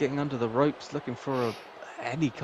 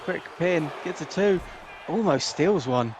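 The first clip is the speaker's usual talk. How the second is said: excited call; 5 semitones higher than usual. Real, not acted. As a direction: sell the near fall. Live call of quick pin.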